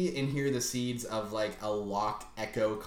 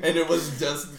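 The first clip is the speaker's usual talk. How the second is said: loud, high, laughing delivery; mock-epic bedtime tale, bursting with laughter; hammed-up storytelling; 5 semitones higher, 7 dB louder than usual. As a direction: stretch it out grandly while cracking up. Acting grandfather's absurd bedtime story.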